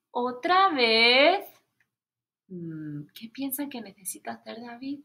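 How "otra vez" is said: exasperated sigh. Acted. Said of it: "Y pone".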